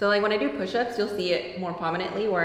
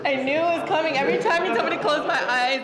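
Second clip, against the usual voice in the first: laughing disbelief; 5 semitones higher, faster than usual. Real, not acted. Patient reacts after a surprise crack.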